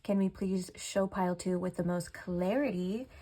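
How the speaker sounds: soft prayerful request, slowing at the end; quiet invocation to Spirit. Acted. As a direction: call on Spirit gently, like a prayer. Asks Spirit for guidance.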